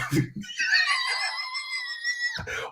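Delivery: high-pitched squealing laugh; a burst of scandalised high laughter; shrieking laugh. Real, not acted. Shocked at own crude remark.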